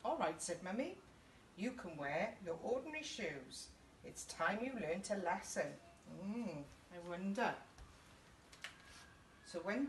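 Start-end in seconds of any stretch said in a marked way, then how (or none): 0.0-5.8 gentle storybook reading for little ones; reading to children. A narrator's reading. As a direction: read it like a nursery story time. Reading a picture book to children.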